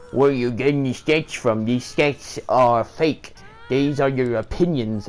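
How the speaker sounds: imitating a mad player dismissing the facts; mock angry boyfriend. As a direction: sneer it like the raging gamer. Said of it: "getting madder and madder".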